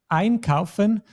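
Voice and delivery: einkaufen with EIN stressed, kaufen lighter; stress on first syllable. Shown as a demonstration. Teacher showing a learner the separable verb, stress on EIN in einkaufen. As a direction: punch the EIN at the start of einkaufen. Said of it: "the stress is always on the syllable, on the first syllable".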